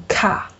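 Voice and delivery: "卡" with a puff of air on the k; aspirated K plus A. Shown as a demonstration. Teacher showing the logical but wrong reading, "卡" with aspirated k. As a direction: say "卡" as a plain aspirated "kha". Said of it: "读成卡是错误的".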